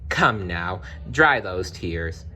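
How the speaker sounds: slow, gentle and comforting. Acted. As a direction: soothe a crying girl, slowly. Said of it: "said a gentle voice".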